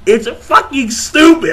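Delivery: high, laughing scorn. Real, not acted. Vlogger mocking a stupid comparison, laughing. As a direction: laugh through the insult.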